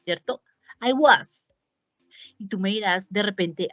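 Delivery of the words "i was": American was. Shown as a demonstration. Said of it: "en Estados Unidos usualmente se utiliza was".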